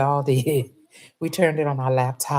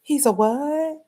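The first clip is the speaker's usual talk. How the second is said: high, stunned double take; disbelief; 11 semitones higher, slower than usual. Retold or imitated. Driver reacting to rider praising the old coach, high disbelief. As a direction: squeak it out in shock. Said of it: "I was like".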